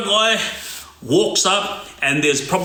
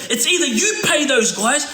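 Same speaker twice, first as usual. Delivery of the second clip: mock threat; 7 semitones higher than usual. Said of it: "start going off".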